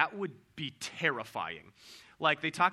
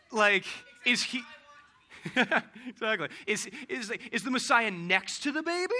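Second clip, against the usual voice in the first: amused disbelief; 5 semitones higher, 7 dB louder than usual. Real, not acted. Mocks absurd sign idea.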